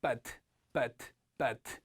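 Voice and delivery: But as a short, loose syllable; short, relaxed. Shown as a demonstration. Teacher telling students to relax, but said short and light. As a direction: keep but brief with no force. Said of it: "힘을 빼고 짧게".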